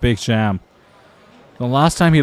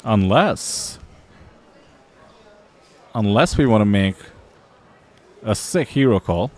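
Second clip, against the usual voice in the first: mock Australian accent with questioning upticks; imitated Australian accent. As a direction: put on an Australian lilt, lifting the phrase ends. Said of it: "sentences end with an inflection".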